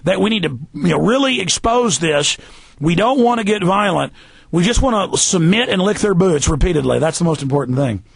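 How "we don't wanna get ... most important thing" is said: deadpan sarcasm in an everyday voice; understated mock submission; sarcastic. Real, not acted. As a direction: say it as if sincere, meaning the opposite. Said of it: "I'm being sarcastic".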